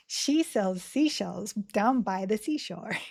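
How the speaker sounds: slow, careful tongue twister; tongue-twister practice. Shown as a demonstration. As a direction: enunciate each sibilant slowly. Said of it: "practice with lots of tongue twisters".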